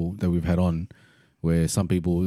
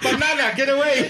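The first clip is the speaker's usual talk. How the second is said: mock nun. Mimicking the nun, laughing.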